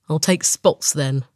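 slow, lightly voiced leopard deciding; a hint of a choosy leopard. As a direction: let the leopard give in, unhurried. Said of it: "says the leopard".

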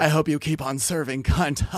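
lightly voiced reality star; Luann impression. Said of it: "my voice is kinda giving her right now".

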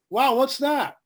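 wife spots a light while driving; lightly voiced wife, amazed; amazed wow. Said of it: "So she goes".

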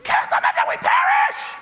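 shrill, high, loud cry of panic; disciple's frantic cry in the storm; Peter hollering. Retold or imitated. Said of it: "Peter hollers out".

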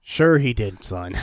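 low, unimpressed father; deadpan dad reply; dismissive dad. Retold or imitated. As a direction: brush off the child, dropping low at the end. Dad answers the excited kid.

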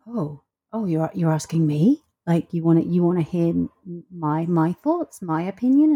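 hesitant, disbelieving question with stumbling repeats; imitating a flustered "who, me?"; taken aback. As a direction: play someone surprised to be asked. Voicing people surprised to be asked.

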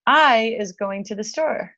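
"I" drawn out and leaned on, then the rest; stress on I. Shown as a demonstration. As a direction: slowly demonstrate the faulty sentence, weight on "I". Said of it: "you wouldn't say".

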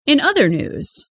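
measured news anchor delivery; radio news read. Acted. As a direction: report it like a local radio newscaster. Reads radio news report.

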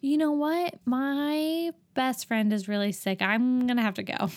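high, breezy made-up excuse; mock excuse to leave. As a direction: bail out of the date with a lie. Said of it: "that should be enough to be like".

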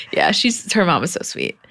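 normal talking voice

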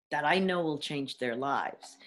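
hushed confiding whisper; soft unvoiced whisper. Real, not acted. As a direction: drop to a whisper as if sharing a secret. Confiding about her teaching.

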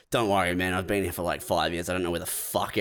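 low, soft resigned worker voice; a lightly voiced beaten-down employee; defeated. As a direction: give up on it completely, quietly. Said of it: "He's like".

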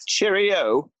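a whispered, mocking British "Cheerio"; breathy send-up of a British goodbye; mock British farewell. Mocking the British accent to his co-host with a whispered farewell.

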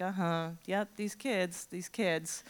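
soft weary tut-tutting; disappointed mother nodding; resigned disappointment. Retold or imitated. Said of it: "she's nodding in this way".

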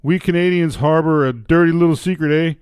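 put-on Canadian accent. Reading a Canadian's column aloud, in Canadian accent. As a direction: read it as a comic Canadian. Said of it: "give up the accent".

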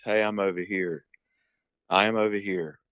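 flat, unchanging hen call words; monotone voice. Shown as a demonstration. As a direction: say it dead monotone, no inflection. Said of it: "in a monotone voice".

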